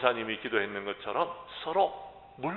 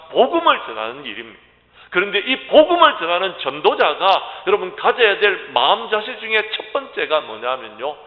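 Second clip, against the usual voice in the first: loud, raised pulpit delivery; forceful preaching; 5 semitones higher, 11 dB louder than usual. Real, not acted. Pastor telling evangelists not to fear, forceful preaching. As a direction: hammer the key phrases out to the congregation.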